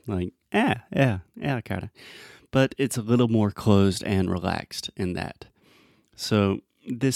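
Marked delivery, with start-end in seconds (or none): 0.5-1.9 Brazilian Portuguese. Shown as a demonstration. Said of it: "eh in Portuguese".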